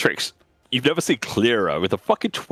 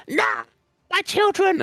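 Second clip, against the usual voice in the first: dying creature wail. Acted.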